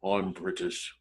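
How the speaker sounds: confessing actor. Retold or imitated. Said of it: "So I said".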